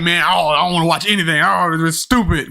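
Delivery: mildly reluctant, dismissive groan; imitating a mildly grumbling skeptic; apprehensive. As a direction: retell your own reluctance, dragging out the dismissal. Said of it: "apprehensive at first".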